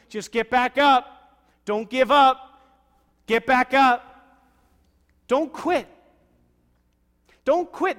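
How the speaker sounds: preaching shout. Real, not acted. Pastor urging the church, shouting high and slow. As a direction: cry it out to the back row.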